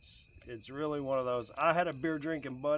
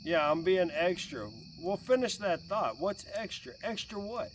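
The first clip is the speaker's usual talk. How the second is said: mock-indignant, higher; sarcastic retort; 5 semitones higher than usual. Dad mocks daughter calling him extra, sarcastic. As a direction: throw her word back sarcastically. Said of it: "she tells you you're being extra".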